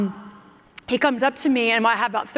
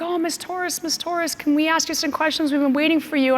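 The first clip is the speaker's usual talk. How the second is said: higher-pitched voice of an eager reporter; imitated reporter; 6 semitones higher than usual. Reporter asks athlete for an interview after drug testing, imitated in higher voice. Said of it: "there's this reporter there along with".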